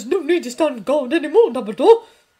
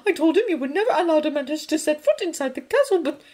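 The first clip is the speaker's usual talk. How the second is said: much higher, much louder outraged woman; angry professor; 11 semitones higher, 9 dB louder, faster than usual. A narrator's reading. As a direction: cut in, furious. McGonagall furious.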